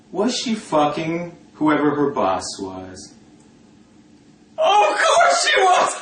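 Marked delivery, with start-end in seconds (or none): 4.6-6.0 shrieking high with laughter; laughing so hard the pitch flies up; laughing shout. Real, not acted. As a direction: crack up while shouting it out. Laughing outburst about the boss.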